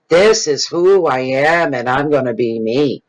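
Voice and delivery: opens high, slow and emphatic, then settles; defiant self-declaration. Acted. Younger self to disapproving people, defiant declaration. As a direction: declare it to everyone as a retold stand. Retells declaring herself to the world.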